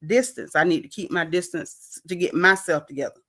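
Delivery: imitating a calm, measured explanation; calm retelling. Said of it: "calmly expressing to her".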